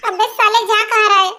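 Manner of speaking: amused mock outrage as he walks away; laughing call. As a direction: shout it after him, half laughing. Friend walking off to sleep.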